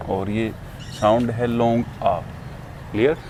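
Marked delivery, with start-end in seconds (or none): 2.0-2.2 आ held as a long open "aa"; long आ sound. Shown as a demonstration. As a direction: sustain the vowel in आ. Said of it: "long है".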